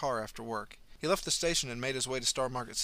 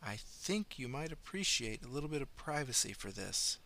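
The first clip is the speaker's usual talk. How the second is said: soft, leaning-in aside; stage whisper; 3 semitones higher, 6 dB quieter than usual. A narrator's reading. Doctor leaning to Marnie's ear, a soft stage whisper. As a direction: murmur it close to her ear. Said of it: "whispered loud enough".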